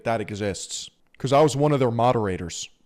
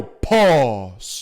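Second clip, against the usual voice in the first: meme voice; 4 dB louder than usual. Pretend. Hey yo pause" meme joke.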